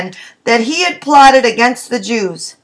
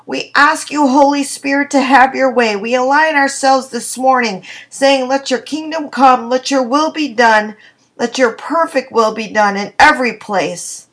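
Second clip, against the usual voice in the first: fervent spoken prayer, building in intensity. Acted. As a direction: pray boldly over the listeners. Leads a radio prayer.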